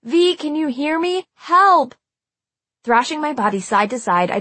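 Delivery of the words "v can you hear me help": high-pitched desperate calling out; urgent, high cry for rescue; yelling for help. A narrator's reading. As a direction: call to a friend, rising to a loud yell. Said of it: "I yelled".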